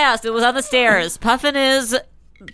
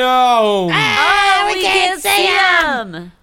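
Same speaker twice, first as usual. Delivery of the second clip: high mock voice; 10 semitones higher, 4 dB louder, much slower than usual. Joke on Blind Item.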